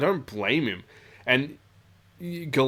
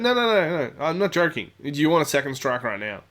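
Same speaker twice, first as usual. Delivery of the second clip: stern no-nonsense; 4 semitones higher than usual. Retold or imitated. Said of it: "He's like".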